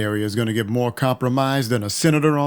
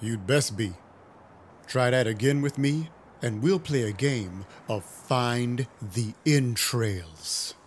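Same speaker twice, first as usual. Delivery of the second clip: quiet threat; 6 dB quieter than usual. Acted. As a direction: lean in and threaten him softly. Narrator threatens the prince's courier.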